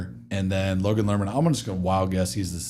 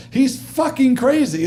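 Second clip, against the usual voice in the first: very high, loud mock outburst; exasperated retold yell, slow and high; going crazy; 5 dB louder, slower than usual. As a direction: imitate a director losing his mind, drawn out. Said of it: "Michael's going crazy".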